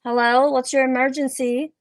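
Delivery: lightly voiced phone operator; a hint of a puzzled emergency dispatcher. Operator answering an emergency call, lightly voiced role. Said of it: "the operator on the phone is like".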